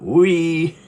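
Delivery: a sharp, loud, high "Oi!" to get attention; sudden call out. Real, not acted. Calling out to Deacon the dog, sharp loud call. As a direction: snap a quick call across the room.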